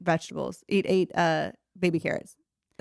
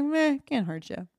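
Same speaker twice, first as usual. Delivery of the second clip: shrugging nonchalance; 3 semitones higher than usual. Retold or imitated. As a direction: brush it off lazily. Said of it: "And I was like".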